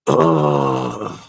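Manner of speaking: low, loud groan. Real, not acted. Host about to explain the thing, groaning. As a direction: let out a heavy "ugh".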